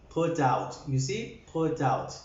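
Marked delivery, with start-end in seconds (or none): 0.1-0.8 "put out" in a lower voice, short u as in "foot"; softer "put out". Shown as a demonstration. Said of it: "it has to be softer". 1.5-2.2 "put out" gently, short u as in "foot"; softer "put out". Shown as a demonstration. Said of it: "it has to be softer".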